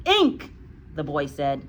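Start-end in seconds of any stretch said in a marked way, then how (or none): 0.1-0.5 put-on high, loud little-boy answer; schoolboy voice. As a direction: pipe up as a small pupil. Frightened pupil answers headmistress.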